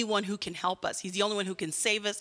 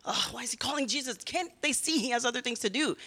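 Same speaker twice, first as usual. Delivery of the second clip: quick, annoyed grumble; imitated annoyance; 3 dB quieter than usual. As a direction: complain like an irritated bystander. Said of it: "they get annoyed, don't they?".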